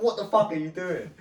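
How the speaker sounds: loud, high-pitched retold exasperation; exasperated outburst. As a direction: re-enact snapping at a panicking friend. Retells exasperated outburst at friend.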